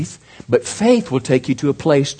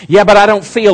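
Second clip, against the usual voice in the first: whining objection; 6 semitones higher, 7 dB louder than usual. Acted. Man complaining to God.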